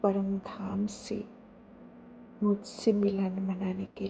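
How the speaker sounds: measured devotional telling with long pauses. Real, not acted. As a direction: let each short phrase settle before the next. Recounts a meditative vision.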